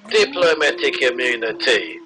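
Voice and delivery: a quick Lethal Weapon South African villain line; mock South African accent. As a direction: drawl it like the movie baddie. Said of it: "my only South African accent is from Lethal Weapon two".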